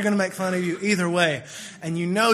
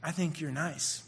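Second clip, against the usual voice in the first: subtle note; 3 semitones lower, 8 dB quieter, slower than usual. Retold or imitated. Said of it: "she's being subtle".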